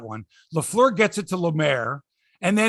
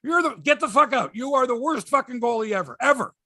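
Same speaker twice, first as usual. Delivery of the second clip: a mock yell at the goalie, higher; retold screaming; 7 semitones higher than usual. Retelling a TV coach berating his goalie, mock yell. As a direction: imitate the coach chewing out his goalie, half-hearted. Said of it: "he's screaming at him".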